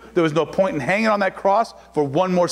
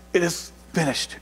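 soft, breathless and spent; weak last words of a dying man; faint dying gasp; 4 semitones lower, 5 dB quieter than usual. Retold or imitated. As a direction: let it fade out like a man with no air left. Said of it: "he's trying to catch his breath".

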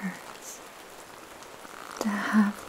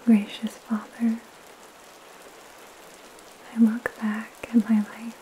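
soothing spa whisper. Real, not acted. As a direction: whisper softly to calm the listener. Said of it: "in a soft spoken voice".

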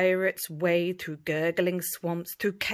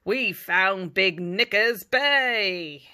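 shouting; 7 dB louder, slower than usual. Acted. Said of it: "The captain shouts".

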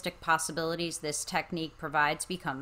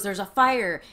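louder, mildly urgent alarm; frantic; 6 dB louder than usual. Acted. Son spotting a fire, mildly frantic. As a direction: raise a lightly acted alarm. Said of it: "and he's frantic".

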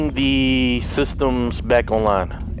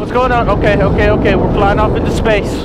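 high, loud panicked outburst; startled alarm; 6 semitones higher, 5 dB louder than usual. Real, not acted. Player whose shuttle lurches, loud alarmed surprise. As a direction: react like the floor just dropped. Shuttle suddenly goes wrong.

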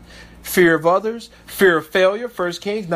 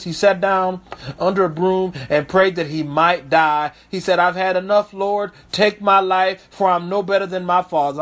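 scripture reading; 2 semitones lower than usual. Acted. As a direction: read the verse with weight. Reads scripture aloud.

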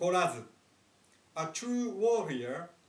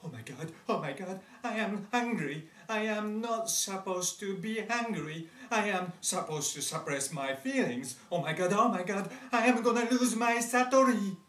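panicky; faster than usual. Acted.

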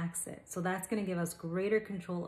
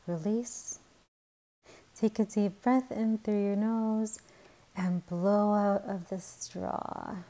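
lightly projected, measured instructor voice; guided muscle relaxation with unhurried pauses; 5 dB louder than usual. Acted. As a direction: guide listeners step by step, drawing out the releases. Leads a guided relaxation exercise.

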